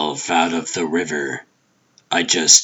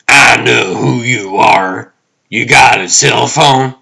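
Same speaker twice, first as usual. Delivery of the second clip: high, loud, paranoid challenge; suspicious roommate; 7 semitones higher, 10 dB louder than usual. Acted. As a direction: question the visitor sharply through the door. Wary roommate challenges him.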